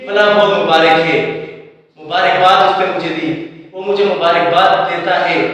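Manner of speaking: مبارک as mu-baa-rik; common mispronunciation. Shown as a demonstration. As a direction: say each مبارک with a short i before k. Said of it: "استعمال کیا جا رہا ہے".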